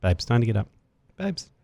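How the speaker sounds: soft, murmured mock wake-up call; mock ASMR. Host mocking an ASMR alarm for a relaxed wake-up. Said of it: "A S M R style".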